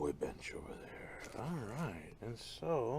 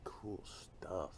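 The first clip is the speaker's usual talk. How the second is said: whisper; 3 semitones lower, 8 dB quieter than usual. Real, not acted. Whispering over plant.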